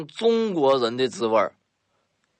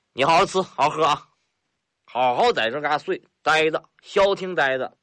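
a hearty, swaggering northeastern boss, lightly voiced; a boastful mountain boss, mildly put-on; rough bandit chief Lao Hu. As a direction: play the sly bandit chief, chuckling at his guest.

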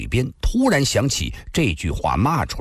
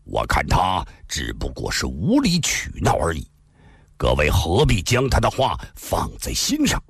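stern; 4 semitones lower than usual. Acted. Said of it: "赵正义厉声地说道".

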